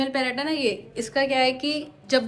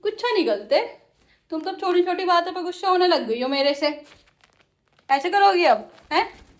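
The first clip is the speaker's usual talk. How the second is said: higher, playful pet scolding; 5 semitones higher, 3 dB louder than usual. Real, not acted. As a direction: tease the sulky bird.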